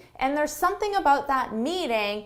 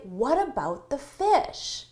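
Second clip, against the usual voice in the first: concerned objection; slower than usual. Shown as a demonstration. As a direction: raise it as a worry, not an idea. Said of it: "Now, notice my tone".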